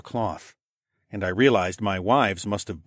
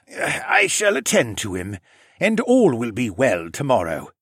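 lightly voiced lizard man; 2 semitones higher, 4 dB louder than usual. A narrator's reading. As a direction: reassure with measured dignity.

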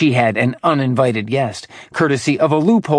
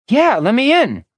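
high, sweet fake female voice; a demon faking a friend's voice; imitating a woman; 11 semitones higher, 4 dB louder than usual. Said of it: "his father pretending to be her".

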